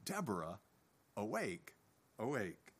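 low, soft urging to oneself; quiet self-urging. Retold or imitated. Deborah urging herself awake, quiet and inward. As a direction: rouse yourself under your breath. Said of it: "to herself, she says".

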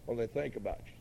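low, quiet inner voice; lightly voiced whisperer of doubt, kept low; little tempting voice. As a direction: mimic a quiet nagging doubt. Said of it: "I could almost mimic the voice".

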